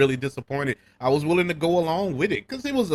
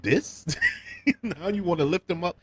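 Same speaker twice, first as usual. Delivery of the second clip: incredulous; 5 semitones higher than usual. Retold or imitated. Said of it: "And I'm like".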